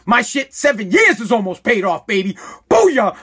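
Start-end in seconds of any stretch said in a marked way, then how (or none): 2.7-3.1 a loud gloating booyah; mock triumphant cheer. Ranting vlogger gloating over paid-off debt, loud cheer. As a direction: crow it like you've won.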